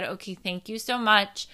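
calm, composed retold reply; understated calm thanks. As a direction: keep it even and polite, holding emotion back. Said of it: "just very calmly said".

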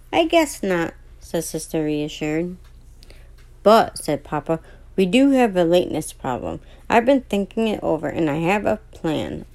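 reading a bedtime story aloud; steady storybook reading voice; story narration. A narrator's reading. Reads children's story aloud.

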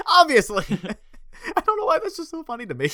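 high giggly voice; laughing. Real, not acted. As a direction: laugh helplessly while talking. Helpless laughing.

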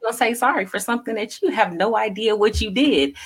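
high-pitched, indignant voicing of a hurt partner; hurt accusation. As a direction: imitate someone wounded and demanding, starting very high. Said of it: "feels like".

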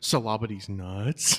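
loud, drawn-out joke payoff; spring the gag, loud and slow; slow gotcha shout; triumphant punchline. Pretend. Springing the punchline of his prank.

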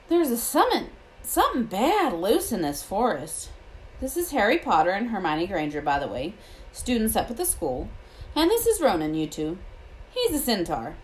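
a touch of rustic gamekeeper; lightly voiced Hagrid. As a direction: lightly voice the gamekeeper making introductions.

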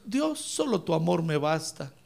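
contented prayer. Acted. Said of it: "Como para que nosotros digamos".

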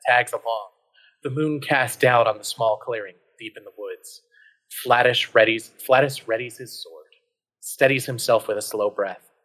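measured adventure narration; story narration. A narrator's reading. Narrator setting up a werewolf hunt, measured storytelling. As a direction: read it out like a tale unfolding.

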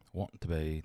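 soft fragment in mock English accent; imitated English accent. Co-host working out which accent, imitated English accent. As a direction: softly echo it with an English accent. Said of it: "that's probably English".

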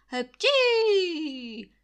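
big, high, loud sneeze. A narrator's reading. Sick landlord sneezing loudly between his calls. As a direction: sneeze hard, falling at the end.

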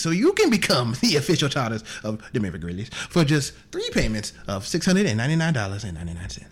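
John Thomas Aloysius Booth. Acted. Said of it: "It's John Thomas Aloysius Booth here".

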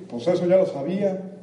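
lightly voiced smug inner voice; dismissive know-it-all thought; inner squirrel voice. Speaker voices the squirrel brushing off advice, lightly smug. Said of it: "qué te dijo la ardilla".

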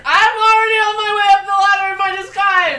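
loud, high excited yell; excited shout. Real, not acted. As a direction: blurt it out, thrilled.

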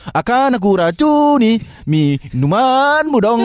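slow, high, drawn-out casual take; casual real-life version. Pretend. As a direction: say it like a normal chat. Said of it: "nggak mungkin kita".

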